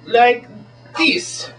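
high, hammed-up mock Swedish showman; Swedish magician. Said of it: "as the Swedish magician".

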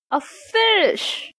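high, bright cry of discovery; excited cry. Acted. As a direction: shout it out with excitement. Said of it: "he cried".

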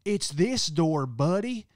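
loud, high, slow mock scold of a grumpy woman; disgruntled lady. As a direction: play the snippy guest telling him off. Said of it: "She goes".

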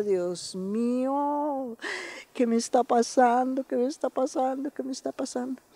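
fading, bewildered plea to God; anguished prayer. Retold or imitated. Woman overwhelmed at a retreat, a fading anguished plea.

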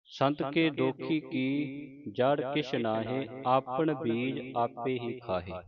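slow, measured verse reading with drawn-out vowels; scripture recitation. Shown as a demonstration. Teacher models Gurbani for the congregation, slow recitation. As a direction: recite each verse slowly, stretching the line's long vowels.

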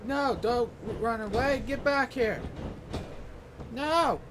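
sharp high yell of no at the screen. Real, not acted. Gamer yelling at his wrestler on screen, high shout. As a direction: shout it at the opponent.

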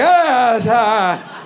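high, drawn-out "ah"; flustered high cry to cover shame; embarrassed cry. Acted. Covering up shame when caught.

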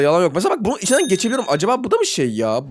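ordinary talk, nothing marked

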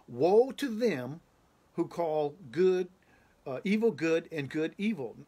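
slow, loud pronouncing voice; voice from heaven. Retold or imitated. Heavenly voice answering the dreamer, slow and loud. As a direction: boom it out like a heavenly voice.

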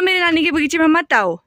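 मेरी stressed, a firm called-out warning; mock-stern call to the monkeys; demo shout at monkeys. Shown as a demonstration. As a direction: show the child how to shout it. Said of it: "ऐसे बोलो".

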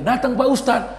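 gembira. Retold or imitated. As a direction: greet the guest gladly. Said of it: "menyambut awak gembira". (sambutan gembira)

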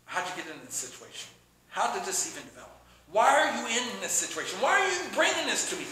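mock interrogation escalating to a shouted why; accusatory questioning, building. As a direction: pile on the blame until it bursts into shouting. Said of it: "We throw accusations out".

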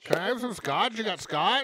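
high, loud whiny plea for scotch; high begging. Acted. Friend begging the host for scotch, high whiny plea. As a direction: beg like a kid for scotch.

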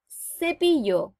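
"Cepillo" slow, each syllable drawn out; "Cepillo" spoken slowly and carefully; over enunciating. Shown as a demonstration. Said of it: "comienzan con el sonido E".

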